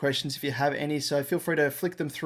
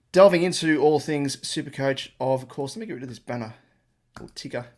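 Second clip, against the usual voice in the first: breathless after running upstairs; talking while still catching breath; 4 dB louder than usual. Real, not acted. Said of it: "Sorry, I'm out of breath".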